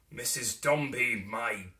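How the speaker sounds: halting, stiff "my, my dear"; a stern man forcing out tenderness; hesitant endearment. A narrator's reading. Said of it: "though not without some hesitation".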